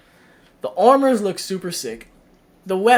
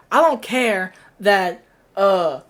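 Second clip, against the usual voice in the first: heated rant; 3 semitones higher, 3 dB louder than usual. Real, not acted. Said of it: "I'm getting heated about this".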